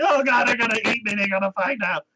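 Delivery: high panicky whimper; hammed-up frightened student; mock panic. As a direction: squeak it out like he's doomed. Scared student's inner panic.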